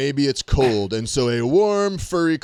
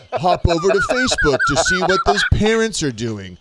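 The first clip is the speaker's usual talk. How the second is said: laughing; 5 semitones higher, 4 dB louder than usual. Real, not acted. Laughing through listed joke.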